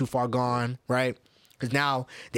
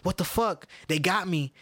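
imitating pleading; 5 semitones higher than usual. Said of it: "She was pleading on the, on her live".

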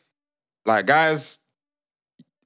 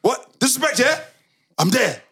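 hyped-up mock outrage; 11 semitones higher than usual. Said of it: "it's like".

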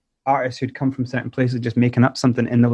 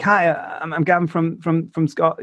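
higher, halting mock phone greeting; nervous caller; 4 semitones higher than usual. Rapper retelling cold call to a label, mock nervous. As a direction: stumble nervously through a retold introduction. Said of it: "Your heart would be s-, beating so hard".

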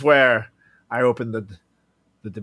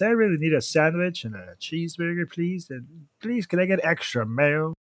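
lightly voiced needy guy; 5 semitones higher than usual. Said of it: "Or he talks like this".

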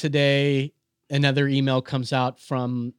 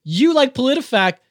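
heated rant; 4 semitones higher, 4 dB louder than usual. Real, not acted. Angry rant about coworker.

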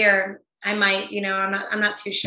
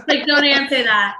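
laughing through the words, higher and louder; 5 semitones higher, 6 dB louder than usual. Real, not acted. Guest laughing off the host's joke about being unstable, laughing. Joking after unstable internet quip.

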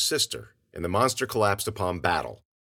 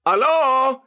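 very loud, high holler; long, ringing yell; crying out; 10 dB louder than usual. A narrator's reading. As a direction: shout it to the empty street. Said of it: "he cried again".

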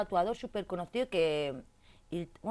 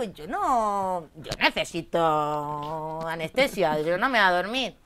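insistent; 7 dB louder, much slower than usual. Retold or imitated. Insisting she will not sleep.

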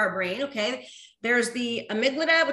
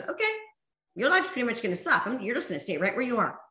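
mock defeatist voice; 3 dB quieter, faster than usual. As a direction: rattle off the bad wolf's verdict fast. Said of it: "the more it goes".

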